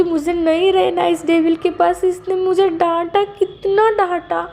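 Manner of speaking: high, whiny voice, slowing into a tearful wail; crying complaint. Retold or imitated. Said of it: "वो रोने लगता है बेचारा".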